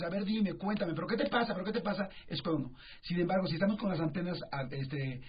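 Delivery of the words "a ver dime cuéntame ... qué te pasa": a pressing, insistent parent, a little higher; pushy parent. Retold or imitated. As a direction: hound the kid for answers. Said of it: "estamos todo el tiempo encima de ellos".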